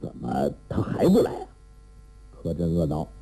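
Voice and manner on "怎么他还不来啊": restless, quick and low-pitched; low, hurried impatient muttering. A narrator's reading. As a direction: rush it out, fretting over the wait. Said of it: "韩宝驹焦躁起来".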